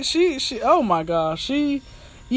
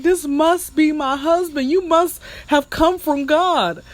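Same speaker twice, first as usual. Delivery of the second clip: higher, louder lovestruck gushing; googly-eyed adoration; 7 semitones higher, 4 dB louder than usual. Retold or imitated. Smitten woman to lover in bed, hammed-up adoration. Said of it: "give him the googly eyes".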